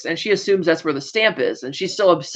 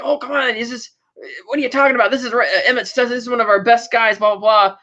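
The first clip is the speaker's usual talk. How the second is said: upset bank manager; 4 semitones higher, faster than usual. Retold or imitated. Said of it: "he's kind of upset".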